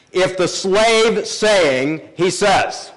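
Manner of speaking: slow, weighing each word of the Hebrew; slow emphatic literal reading. Shown as a demonstration. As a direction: stretch it out to show the repetition. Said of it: "trying to add emphasis".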